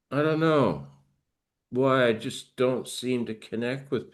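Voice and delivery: mildly withdrawn, halting delivery; hesitant, subdued musing; shut-down person. Acted. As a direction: lightly act someone who has closed up, with long pauses. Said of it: "shuts down like this".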